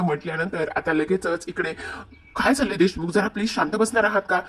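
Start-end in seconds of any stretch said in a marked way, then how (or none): 2.4-4.4 mildly imitated scolding, raised pitch; exasperated. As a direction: act out an impatient hushing. Kavya tells joking Parth to hush.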